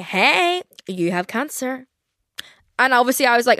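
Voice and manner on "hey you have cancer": high sing-out greeting, then slow matter-of-fact drop; chirpy hello sliding into a drawn-out deadpan; mock breezy email. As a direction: imitate a casual message delivering bad news. Voicing a tactless diagnosis email.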